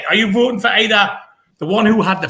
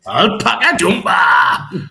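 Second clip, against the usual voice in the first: put-on Geordie accent; slower than usual. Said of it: "Sounds better in a Geordie accent".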